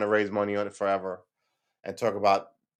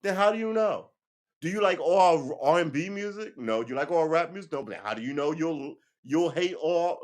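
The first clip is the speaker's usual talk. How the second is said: incredulous friends; 7 semitones higher than usual. Retold or imitated. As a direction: mimic friends challenging him, high and quick. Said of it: "They were like".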